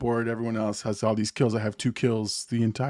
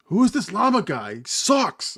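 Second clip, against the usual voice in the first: high-pitched imitation of a complaining teammate; mock heckling; 9 semitones higher than usual. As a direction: jeer like an annoyed player, hammed-up. Voices teammates bullying him.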